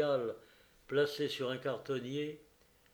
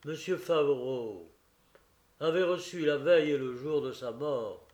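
forcing steadiness; 5 dB louder than usual. Acted. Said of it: "d'une voix qu'il s'efforçait de raffermir".

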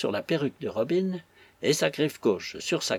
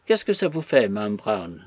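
curt reply; 3 semitones lower than usual. Acted. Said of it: "répondit sèchement".

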